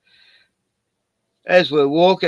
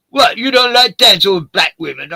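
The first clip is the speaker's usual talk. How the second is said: mock offended woman; 6 semitones higher, 8 dB louder than usual. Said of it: "She goes".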